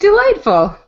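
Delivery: high laughing delightful. Real, not acted. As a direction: laugh the word out. Laughing reply to the Starbucks story.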